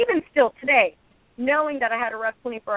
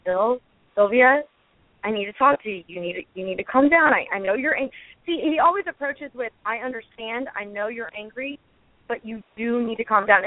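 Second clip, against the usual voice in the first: calming imitation. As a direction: mimic a friend gently calming her down. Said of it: "he just has that voice that's very calming".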